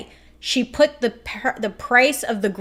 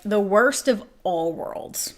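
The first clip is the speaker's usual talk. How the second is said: slow, breathy whisper of dismay; slower than usual. Real, not acted. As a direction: hush it out, slowly. Whispered, unvoiced.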